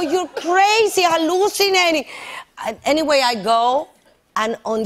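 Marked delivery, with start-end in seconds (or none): 0.0-2.0 retold retort.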